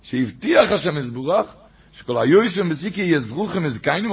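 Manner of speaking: quick run through a sacred text; fast, running recitation; brisk re-reading. Shown as a demonstration. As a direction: reel the quotation off at a fast clip. Same quote re-read quickly.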